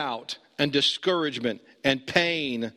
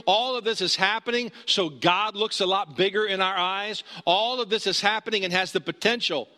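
higher-pitched, driving sermon delivery; impassioned preaching; 4 semitones higher than usual. Real, not acted. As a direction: preach it with building insistence. Preacher builds with repeated phrases.

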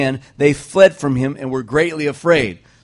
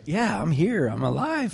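lightly put-on, soft show of being awake; mock alive-and-present; 2 semitones higher, 5 dB quieter than usual. Preacher teasing a drowsy congregation, mock alertness. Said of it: "so you can practice your".

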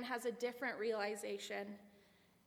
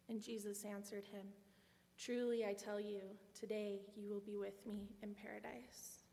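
scripture reading. Acted. Reads Luke 23 passage aloud.

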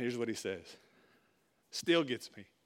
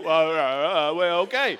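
loud, raised, mock stammering; flustered stammer; 5 semitones higher, 12 dB louder, slower than usual. Boss couldn't answer back, imitated as flustered stammering. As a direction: imitate someone stumped, fumbling for words. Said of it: "he couldn't say nothing".

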